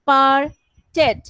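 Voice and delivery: slow demo of পার্টেড, final sound said as t; drawn out পার্টেড ending in a clear t; pronounced with a t ending. Shown as a demonstration. Teacher showing students how to end পার্টেড. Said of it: "এটা টি".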